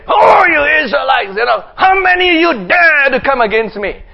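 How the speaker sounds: shouted giant's taunt at the camp. Acted. Goliath taunting the Israelite camp, shouted. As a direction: bellow the challenge across the valley. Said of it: "and he'll say".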